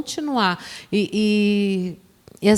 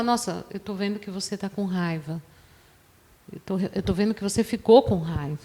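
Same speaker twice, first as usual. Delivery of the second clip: non-judgmental; 2 semitones lower, 7 dB quieter than usual. Acted. Partner describing the other's anger without blame, softly non-judgmental. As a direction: describe it gently, without accusing. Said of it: "É importante que você não julgue e nem acuse o outro".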